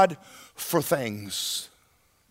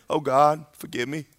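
mock whining prayer; 3 semitones lower than usual. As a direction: imitate a self-pitying altar prayer. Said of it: "we get in altars and we whine".

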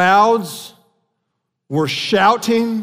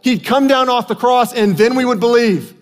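higher-pitched mock crowd shout; 5 semitones higher than usual. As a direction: call out the crowd's taunt, half-shouted. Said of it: "then they shouted".

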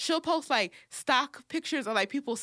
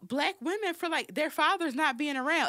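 outraged; 9 semitones higher than usual. Real, not acted. Outraged rant about Iyanla.

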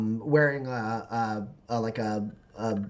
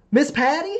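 high, loud questioning call; pitched-up girlish question; startled girl; 13 semitones higher, 8 dB louder than usual. Acted. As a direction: call out uncertainly as a confused girl. Game master voices startled girl.

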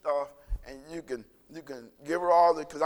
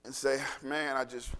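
fervent prayer; 4 dB louder than usual. Retold or imitated. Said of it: "And I go".

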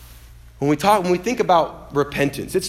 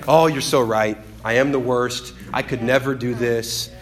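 low, droning mock self-pity; 4 semitones lower than usual. Preacher mimicking people called to repent, mock self-piteous. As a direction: imitate a put-upon moan, piling up complaints. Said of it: "we get self-piteous".

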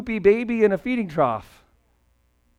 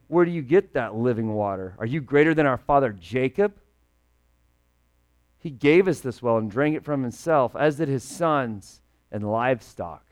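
lightly sassy retort, a touch of attitude; mock sassy; 5 semitones lower than usual. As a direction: give it a little salty back-talk. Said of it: "this woman is getting sassy with Jesus".

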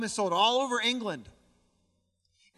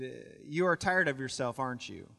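unfazed; 5 semitones lower than usual. Retold or imitated. Pastor answering the woman's challenge at dinner, unfazed. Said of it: "he's completely unfazed".

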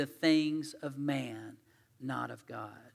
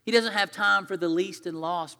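higher, louder sharp rebuke; scolding crowd; 3 semitones higher, 7 dB louder, slower than usual. Acted. Crowd hushing the blind beggar, loud scolding. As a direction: shut someone up impatiently, voice raised.

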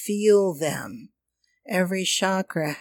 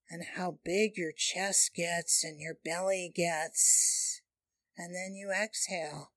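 airy breathy mystical healer. Acted. Guides hand on chakra, breathing.

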